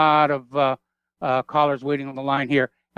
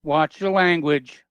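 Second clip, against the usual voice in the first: slow admonishment; 2 semitones higher, slower than usual. Real, not acted. Host cautioning a swearing caller, slow deliberate scolding. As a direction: stretch each word as a measured reprimand.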